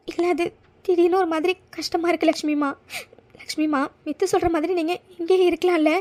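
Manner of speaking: upset and close to crying; tearful. Acted. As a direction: plead through held-back tears. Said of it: "நீ என்னடி இப்படி அழுதுட்டு இருக்க".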